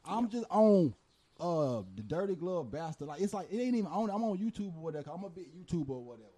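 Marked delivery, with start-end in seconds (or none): 1.4-6.3 far from mic. Real, not acted. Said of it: "You can't hear you on the mic".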